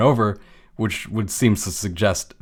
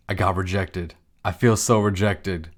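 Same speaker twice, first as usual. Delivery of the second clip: deflated. Retold or imitated. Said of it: "walks on back all deflated".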